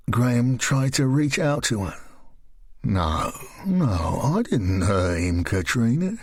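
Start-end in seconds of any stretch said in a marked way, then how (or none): 2.8-6.2 Graham's voice. Acted.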